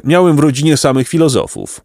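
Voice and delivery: boastful learned donkey. A narrator's reading. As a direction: play a donkey proud of his scholarly line.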